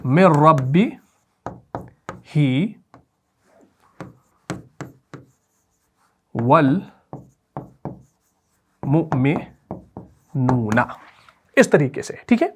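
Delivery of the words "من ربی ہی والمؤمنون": ربی ہی والمؤمنون drawn out slowly and softly, والمؤمنون stretched long; slow recitation while writing. Shown as a demonstration. Teacher reciting the verse slowly for students to write. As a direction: read من ربی ہی والمؤمنون slowly, letting ہی lengthen. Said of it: "میں یہاں پر لکھوں گا".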